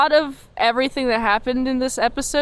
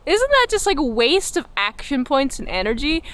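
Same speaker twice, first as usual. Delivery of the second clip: incredulous; 3 semitones higher than usual. Retold or imitated. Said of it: "I'm like".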